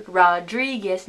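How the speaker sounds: Rodriguez as "rah-DREE-ges"; anglicized. Shown as a demonstration. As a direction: open Rodriguez with an English "rah".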